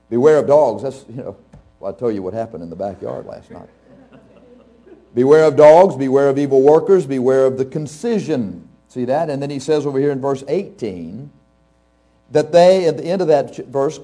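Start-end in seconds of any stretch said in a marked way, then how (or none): 5.1-8.7 loud preached warning. Acted. Preacher reading warning verse aloud.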